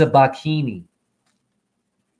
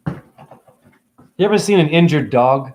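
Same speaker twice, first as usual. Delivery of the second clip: slow pointed question; 3 dB louder, slower than usual. Real, not acted. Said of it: "Hey, Lee Steele".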